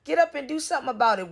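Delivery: rattles it off quickly and sharply; fast scolding. Real, not acted. Vlogger scolding Prissy, firing off a fast command. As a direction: snap at her to get moving.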